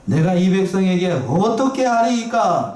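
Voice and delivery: slow, stretched cry of mock exasperation; exasperated plea. Moses cries out to God about his people, acted exasperated plea. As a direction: plead helplessly, leaning long on "어떻게". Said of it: "답답해서 하는 얘기예요".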